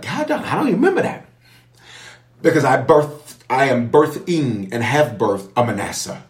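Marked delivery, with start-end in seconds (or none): 0.0-1.3 high, quick, laughing "God, I don't even remember that"; laughing disbelief. Retold or imitated. Bishop recalling telling God he forgot the past, high quick laugh. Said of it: "I'm like".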